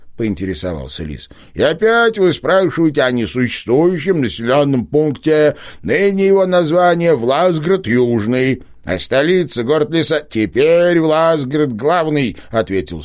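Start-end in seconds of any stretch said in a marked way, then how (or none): 1.5-12.4 выше и громче, последние слова медленно и веско; старичок важно перечисляет новые названия; важный старичок. A narrator's reading. Old man character voice. (старичок поучает детей, высокий важный голос)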